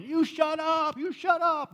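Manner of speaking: high, loud mock crowd shouting; crowd yelling shut up. Crowd shouting at the blind men to shut up, high and loud. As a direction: hush them loudly like an annoyed crowd.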